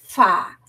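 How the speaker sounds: FÁ with a long hissed f before the vowel; sounded-out syllable. Shown as a demonstration. Teacher showing parents and teachers two sounds in fá, sounded out. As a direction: stretch the f, then open into FÁ. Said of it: "eu faço".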